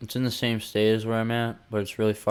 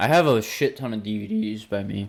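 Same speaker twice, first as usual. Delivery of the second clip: voice breaks partway through the line. Listing the DVDs they own at home, voice cracking. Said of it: "my voice cracked".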